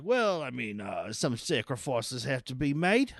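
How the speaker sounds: lightly imitated Russell Crowe accent; touch of Crowe's own accent, slowing at the end; Russell Crowe's real-life accent. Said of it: "I did his real life accent".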